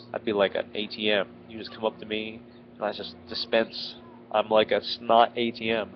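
blocked nose from a head cold; stuffy nose. Real, not acted. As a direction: speak through a stuffed-up nose. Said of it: "and I sound ridiculous".

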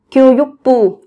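교육부 said as gyo-yuk-ppu; doubled consonant. Shown as a demonstration. Teacher showing learners the doubled consonant in 교육부. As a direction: double the consonant opening the third syllable of 교육부. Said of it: "cần gấp đôi phụ âm".

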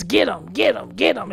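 quick, punched mock urging; imitated excited egging on. Imitating the woman recording the fight, mock excited goading. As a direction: egg them on like siccing dogs. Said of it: "her being aroused by the violence".

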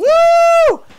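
shrill excited squeal into slow grand boast; squeal, then boast slowly; squealing high woo. Pretend. Playing the gravity lady.

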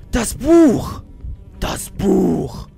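high, loud repeated cry; triumphant loud shouting; excited shout. Real, not acted. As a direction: yell it out thrilled at the find. Finds the book in game.

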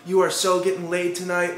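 put-on high gushing valley girl voice; imitating gushing girls at a party; mock valley girl. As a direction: gush like an excited party girl. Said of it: "all these chicks are like".

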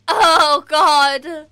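loud, crying out in shock; anguished cry. Real, not acted. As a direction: wail at the sight. Shocked at dead village.

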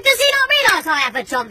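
high exasperated appeal to his wife; indignant complaint. Retold or imitated. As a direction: repeat the grievance in disbelief.

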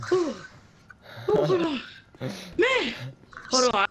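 panting after a run; out of breath. Acted. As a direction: puff between words. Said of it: "let me catch my breath".

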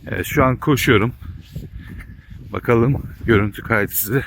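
talking while jogging; a bit out of breath from running. Real, not acted. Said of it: "Dur birazcık koşayım şöyle".

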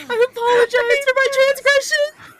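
mock-solemn apology. Real, not acted. Mock-formal apology to stuffed animal.

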